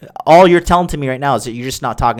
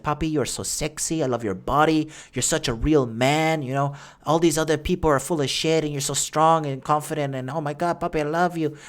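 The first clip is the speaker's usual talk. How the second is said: soft, breathy imitation of a doting girlfriend; girlfriend cooing; 7 dB quieter than usual. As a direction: coo it softly like a smitten girlfriend. Girlfriend voiced cooing praise.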